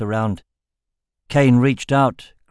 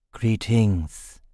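lisping; 2 semitones lower than usual. A narrator's reading. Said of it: "lisped the newcomer".

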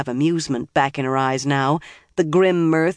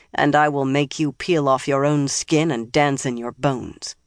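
hard voice. Acted. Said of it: "said in a hard voice".

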